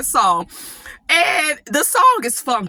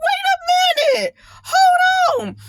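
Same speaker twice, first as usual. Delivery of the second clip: surprised halt. Retold or imitated. Recalling shock at new song.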